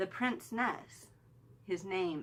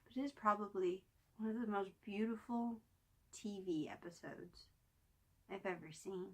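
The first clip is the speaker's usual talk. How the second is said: choked up; 4 dB quieter than usual. Real, not acted. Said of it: "I'm getting a little choked up".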